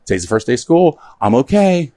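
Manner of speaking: rising to high on okay; imitating mom. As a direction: brave mom checking in. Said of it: "you always reached out to me".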